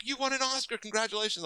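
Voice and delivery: high, loud gushing cheer; excited congratulations. Retold or imitated. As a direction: reenact a thrilled well-wisher. Acts out star congratulating her.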